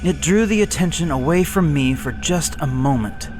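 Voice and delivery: ordinary delivery, nothing marked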